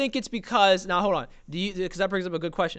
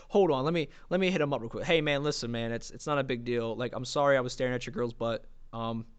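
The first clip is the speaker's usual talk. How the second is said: meek apology; 7 semitones lower, 7 dB quieter than usual. Retold or imitated. Apologetic message, soft voice.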